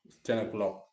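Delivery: talking with mouth full; words round a mouthful of food. Real, not acted. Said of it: "Sorry for talking with my mouth full".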